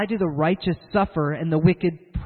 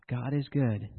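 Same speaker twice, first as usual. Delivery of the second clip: lower, slow solemn answer after a sigh; sigh, then intone it gravely; pious campus guy; 6 semitones lower, 7 dB quieter, slower than usual. Retold or imitated. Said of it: "I never knew what to do with that guy".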